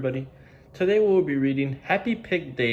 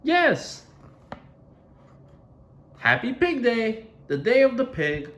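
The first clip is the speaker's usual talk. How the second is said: happy Piggy; 10 semitones higher than usual. Acted. Piggy telling Gerald she is happy, high and bright. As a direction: bubble over with joy. Piggy voiced in picture book.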